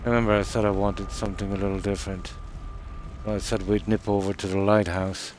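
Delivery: talking around a cigarette; words through a cigarette held in mouth. Real, not acted. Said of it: "I tend to speak when I have a cigarette in my mouth".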